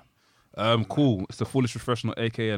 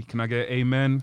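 preacher call; slower than usual. Pretend.

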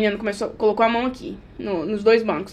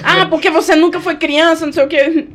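mock outrage; 5 semitones higher than usual. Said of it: "ela gritando".

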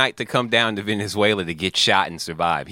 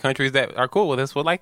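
ordinary delivery

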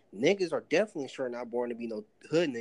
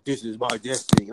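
overacted anime dub; 5 dB louder than usual. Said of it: "sound like some fucking anime character".

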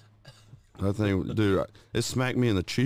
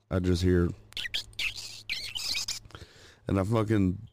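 hushed, breathy telling of the scary moment; whispering the creepy part. Real, not acted. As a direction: drop to a whisper for suspense. Bat right next to head.

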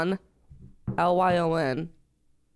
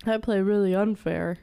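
put-on tough-guy Brooklyn accent; 3 semitones lower than usual. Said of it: "fucking Brooklyn accent".

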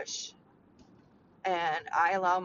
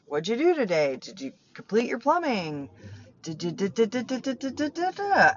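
mock nagging questions, climbing in pitch into rattled-off syllables; Michael on her case; 3 semitones higher, 3 dB louder than usual. Stepdad quizzing her at bedtime, mock nagging. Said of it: "kinda get on my case".

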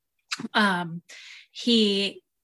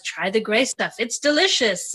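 a light mock French accent on the offer; lightly put-on French accent, like the Lumiere figure. The figure offers Belle the gray stuff in a light French accent. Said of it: "You said that with a French accent".

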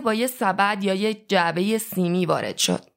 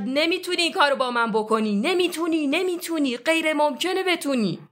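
high, panicked pleading cry; terrified shout; 6 semitones higher than usual. A narrator's reading. Winston strapped to a chair, pleading with O'Brien: terrified high cry. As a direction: beg in terror, voice pitched up high. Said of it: "با ترس و لرز و با صدای بلند فریاد زد".

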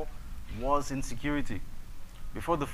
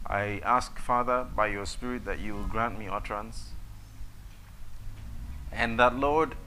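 prayer. Acted. Opening prayer before the sermon.

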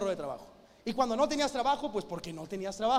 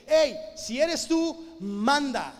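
bold challenge; 3 semitones higher, 5 dB louder, much slower than usual. Acted. Pedro on the boat daring Jesus to command him, bold and slow. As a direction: call out to him like a dare.

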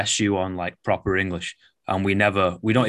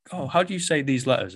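higher, gently put-on questioning voice; soft-spoken English major; 5 semitones higher than usual. Client explaining his question to the coach, soft-spoken. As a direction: lightly mimic a polite, soft-spoken bloke. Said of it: "super soft-spoken, super lovely bloke".

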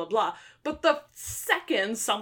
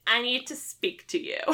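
mock haughty demand, pitched up; added attitude; 4 semitones higher than usual. Imitating the sister barging in on a coffee date, with attitude. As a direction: play up the sister's attitude, half laughing. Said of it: "I'm adding a bit of attitude".

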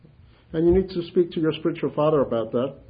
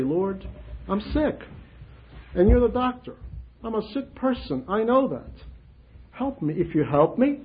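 humble prayer; 5 semitones higher than usual. Shown as a demonstration. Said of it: "very humbly and very simply say".

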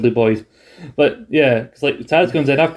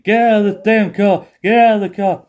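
mock shout; 7 semitones higher than usual. Taz yelling at J R in the car, a mock shout. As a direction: bark the order at the car. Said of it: "he's shouting".

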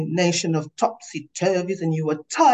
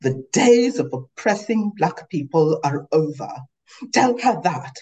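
heated shouting; 2 semitones higher than usual. Acted. Yelling at each other.

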